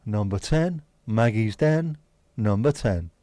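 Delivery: loud bingo call; lightly hammed bingo call; bingo caller voice. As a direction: sing out the number to the hall. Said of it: "Doing me bingo voice".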